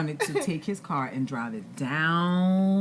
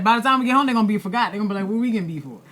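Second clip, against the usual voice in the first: lively inner reasoning; 7 semitones higher, 8 dB louder, much faster than usual. Retold or imitated. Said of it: "I was like".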